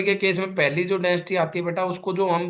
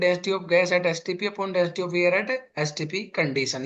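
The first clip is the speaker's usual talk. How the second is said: slow dictation; much slower than usual. Shown as a demonstration. Teacher to class writing the definition, slow dictation. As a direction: stretch every word of the definition.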